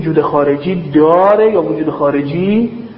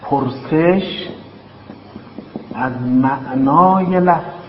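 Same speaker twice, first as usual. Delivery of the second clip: slow dictation; slower than usual. Shown as a demonstration. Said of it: "summing up the first question".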